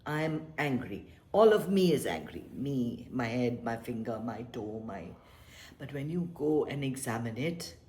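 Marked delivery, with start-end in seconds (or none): 0.1-2.4 mildly mock-indignant insistence; mock angry. Teacher imitating a convinced angry person, mildly mock. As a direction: insist you're all angry. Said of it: "You're quite convinced".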